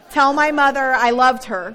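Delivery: loud panicked yell from a runaway donkey; retold scream. Friend yells back as his donkey takes off, loud. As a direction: shout it as the donkey bolts. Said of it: "with my friend screaming".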